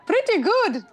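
high squeaky puppet voice; dummy voice. Acted. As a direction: pitch way up like a dummy. Dummy voice read aloud.

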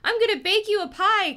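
sing-song it like a creepy aunt; a hint of a sugary witch. Reading Catherine's line.

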